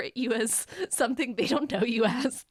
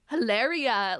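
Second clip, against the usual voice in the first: mock Spanish accent, louder; fake Spanish accent; 3 semitones higher, 6 dB louder, slower than usual. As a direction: exaggerate the name in a put-on Spanish accent. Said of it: "a fake Spanish accent".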